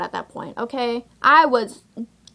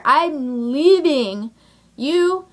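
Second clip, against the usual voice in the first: defiant walkout; 3 semitones higher, much slower than usual. Retold or imitated. Acted walkout speech to date.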